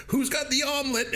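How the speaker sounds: high mock voice. Retelling a funny movie line.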